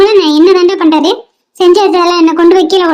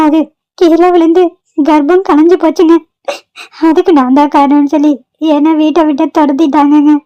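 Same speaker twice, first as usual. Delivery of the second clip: tearful. Acted. Tells of miscarriage, being blamed, sobs.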